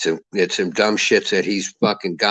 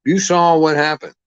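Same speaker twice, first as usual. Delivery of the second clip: higher and louder, hitting saw; louder emphatic repeat; 5 semitones higher, 4 dB louder than usual. Real, not acted. Ranting to listeners, insists louder and higher. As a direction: drive the point home the second time.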